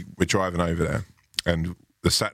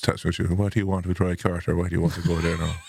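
lightly imitated singsong Irish accent; rural Irish accent. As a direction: attempt a country Irishman's lilt. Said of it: "I'm gonna do this accent".

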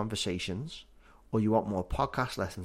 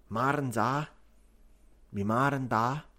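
Scouse accent. Shown as a demonstration. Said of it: "which is mother and father".

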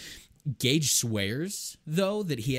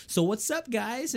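imitating Gabe's greeting; 11 semitones higher than usual. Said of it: "that's always how he starts a conversation".

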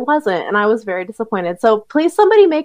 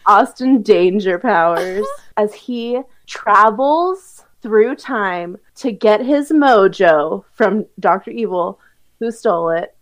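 trailer narration. Acted. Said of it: "your overview is like".

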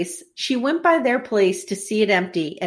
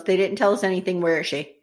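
a lightly voiced calm, low Charles; 4 semitones lower, faster than usual. Host retells the father asking the nurse, calm and low. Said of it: "Charles very calmly goes".

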